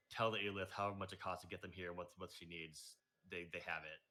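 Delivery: low, soft aside; understated, hushed order; quiet in-character instruction. Acted. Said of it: "and he says".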